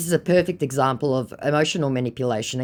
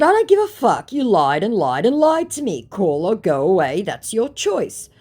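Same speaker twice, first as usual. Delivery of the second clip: high, loud fed-up retort; angry ultimatum; 8 semitones higher, 7 dB louder than usual. Retold or imitated. Woman telling impostor to call or go, angry. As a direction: act out an angry dismissal. Retelling her angry chat reply.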